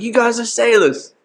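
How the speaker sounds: very high mock London accent; put-on London accent. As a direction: pitch it way up as an imitated Londoner. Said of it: "You gotta hit him with the accent".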